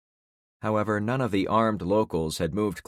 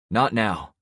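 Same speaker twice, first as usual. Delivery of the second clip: short, sharp and louder; snapped; 3 semitones higher, 5 dB louder than usual. A narrator's reading. Snapping at a teasing friend in the car, short and loud. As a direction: cut him off hard. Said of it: "I snapped back".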